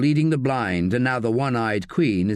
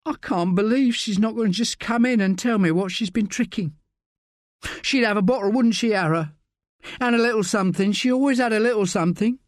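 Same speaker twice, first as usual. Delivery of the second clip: put-on much higher, lilting young woman's voice; Bex, tipsy grief; 10 semitones higher than usual. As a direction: play Bex wistful and fond, drink in hand. Narrator voices Bex, tipsy and grieving.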